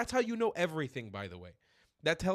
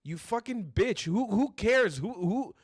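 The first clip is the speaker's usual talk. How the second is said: loud, furious shouting, much higher pitch; real angry rant; 7 semitones higher, 4 dB louder than usual. Real, not acted. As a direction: blow up at her, yelling every line. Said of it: "I get fucking angry".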